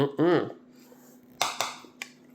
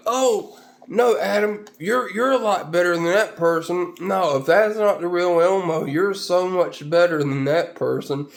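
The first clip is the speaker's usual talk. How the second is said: put-on kid voice; 5 semitones higher than usual. Kid consoling, voiced higher.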